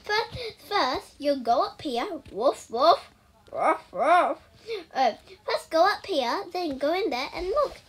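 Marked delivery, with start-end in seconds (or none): 2.3-4.4 dog barking. Pretend. Imitates a dog while playing.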